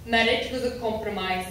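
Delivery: put-on German-accented therapist voice. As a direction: pronounce it as a German therapist would. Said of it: "The therapist had a German accent".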